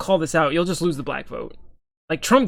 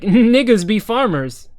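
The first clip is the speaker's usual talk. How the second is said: slow, raised, hammed-up caricature of the joke; mock stereotype voice; 5 semitones higher, 7 dB louder, slower than usual. Mocking the cartoonist's joke, slow hammed-up voice. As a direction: drawl it out like a mocking imitation of the cartoonist. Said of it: "he's going like".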